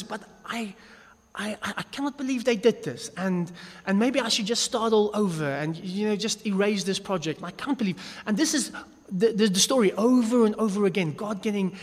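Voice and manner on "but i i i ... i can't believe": lightly voiced exasperated God. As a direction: voice God fed up, understated. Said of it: "And he says".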